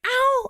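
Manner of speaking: sharp high yelp of pain. Retold or imitated. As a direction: yelp as the wound is touched. Wife pained when bite touched.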